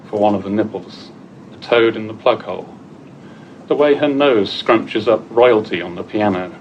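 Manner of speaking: measured poem recital with pauses between phrases; poetry reading. Acted. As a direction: read it out as a poem, line by line. Reads own poem to audience.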